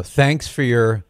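slow mock gratitude; drawn-out, insincere thanks; sarcastic. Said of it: "I'm sounding kind of sarcastic".

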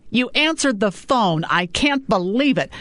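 a hint of an amazed mother; mother amazed her daughter picked up; mother on the phone.

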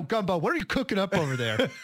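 hammed-up radio host hollering at a guest; mock talk-show shout; calling out to Gumbo.

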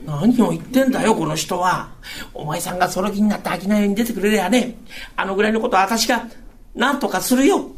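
a hint of the wife comforting him; wife promising husband she'll manage, gently; reassuring wife.

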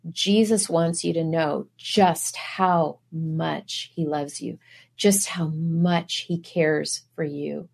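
soft, slow and gentle, like comforting a grieving stranger; tender reassurance. Retold or imitated. Preacher softly assuring a grieving Walmart worker of Jesus' love. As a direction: ease each word out softly to console her.

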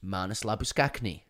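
host says Labuschagne the way it should be said, careful lah-boo-SHANE; correct pronunciation. Shown as a demonstration. Labuschagne, gently corrected to lah-boo-SHANE. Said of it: "which is how it should be said".

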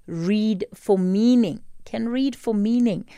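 "read for meaning" said slowly, each word weighted; stress on reading for meaning. Real, not acted. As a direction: lean hard on "read for meaning", then again on "can read for meaning". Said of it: "emphasis on the reading for meaning".

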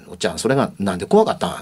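put-on quick, doubting child's question; doubtful child. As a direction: ask it like a suspicious kid. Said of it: "疑わしそうな顔と声で". (疑わしそうな子供の声)

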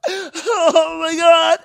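high, drawn-out comic sob; mock wailing. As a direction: wail it in exaggerated grief. Retold breakdown over dad's anniversary.

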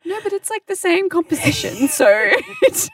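high voice justifying; mock excuse. Teasing coworker by mimicking her excuse, high. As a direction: imitate her squirming explanation.

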